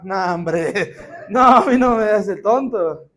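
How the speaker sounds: laughing through the line, slowly; laughing disbelief. Acted. Isaac laughing at his father's answer, amused disbelief. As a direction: chuckle it off as a clever boy.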